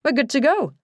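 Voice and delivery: a lightly voiced northern English colleague, eager; chipper northern accent. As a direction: announce it with northern English cheer. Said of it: "in his chipper northern accent".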